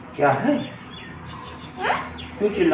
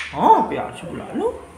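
high call; 9 semitones higher than usual. Shown as a demonstration. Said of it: "प्यार से बुलाओ".

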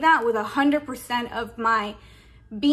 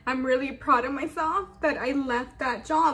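crying. Real, not acted. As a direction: speak through real tears of pride. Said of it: "And I'm crying because".

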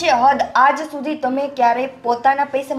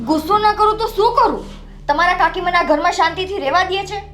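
wife snapping back at her husband, angry and raised; 3 semitones higher than usual. Acted. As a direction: flare up in anger. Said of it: "કેમ આટલી બધી ગુસ્સામાં છો?".

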